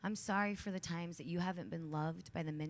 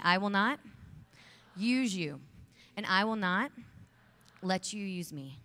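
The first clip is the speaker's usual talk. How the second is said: loud rallying vow; 2 semitones higher, 6 dB louder than usual. Shown as a demonstration. Speaker leading the women in a loud chant of the vow. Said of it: "Repeat after me".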